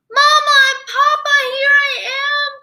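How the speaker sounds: high, fast, overjoyed cry; joyful cry. Acted. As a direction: shout with relief at finding them. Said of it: "cried Pete".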